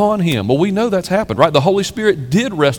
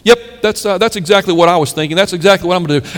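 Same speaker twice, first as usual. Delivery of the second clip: smug agreement; 4 semitones higher than usual. Retold or imitated. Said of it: "we always walk away saying".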